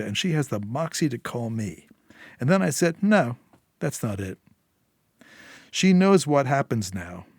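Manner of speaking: a hint of a sly man musing aloud; knowing Eddie, lightly voiced. Fixer telling Julia what he thought on the phone, lightly voiced. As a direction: lightly play him savoring his own read.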